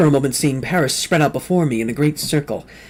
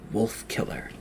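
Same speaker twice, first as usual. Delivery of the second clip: long, low whispered summons; 4 semitones lower, 11 dB quieter than usual. A narrator's reading. A dark figure summoning the sleeper, whispered. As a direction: breathe the words out, no voice, drawn out. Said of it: "a whisper that was like a summons".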